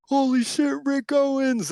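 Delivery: high-pitched imitation of yelling teenagers; retold excited shout in a high voice; mock yell. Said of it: "yelled out their car window".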